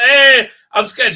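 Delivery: high, loud, slow whimpering mock fear; mock scared whimper. Reviewer mocking the scared dog, whimpering. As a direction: ham up a cowering dog. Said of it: "Look how scared this dog".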